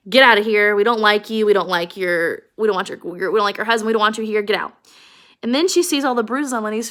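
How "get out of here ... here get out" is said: loud shout of get out; mock yelling. Men in the barn yell at Curley's wife to leave. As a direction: order her out, yelling. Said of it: "they start yelling at her".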